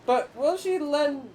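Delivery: lightly voiced grand old spirit, solemn and theatrical; ancient corn spirit. Corn spirit pleading with the traveler to feed the people, lightly grand. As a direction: speak as a lofty forgotten guardian of the harvest.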